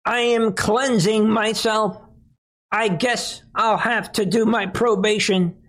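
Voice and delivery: high, whiny fake-tearful whimper; mock crying voice. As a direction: ham up a weepy confession. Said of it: "Think of what she's doing".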